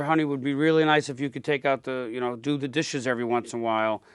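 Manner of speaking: softly polite, gentle ask; sweetly asking a partner to do the dishes; polite request. Retold or imitated. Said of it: "Then eventually you say".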